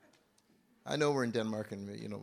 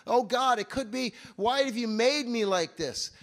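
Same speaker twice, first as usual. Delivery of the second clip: loud, high anguished plea; crying out; 11 semitones higher, 10 dB louder than usual. Retold or imitated. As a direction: cry out to God in distress. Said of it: "he cries out to him".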